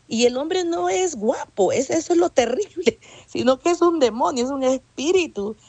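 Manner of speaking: high-pitched, laughing through the words; amused, laughing. Real, not acted. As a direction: let a laugh break into the confession. Amused aside, laughs in testimony.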